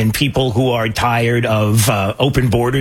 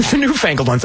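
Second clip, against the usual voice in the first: laughing at own word; 4 semitones higher than usual. Real, not acted. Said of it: "the newsroom's laughing at me".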